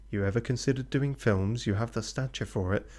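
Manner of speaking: woo him like a sinister recruiter; creepy talent scout. Acted. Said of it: "doing this guy's voice like he's a serial killer pervert".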